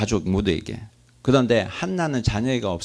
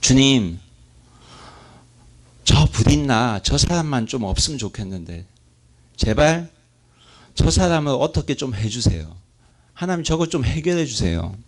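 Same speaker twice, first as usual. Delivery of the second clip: pleading prayer; 3 semitones higher than usual. Retold or imitated. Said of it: "사람을 위한 기도를 했을 겁니다".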